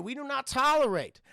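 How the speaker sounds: a stern officer's refusal, lightly hammed up; Southern police officer. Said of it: "And you get this police officer".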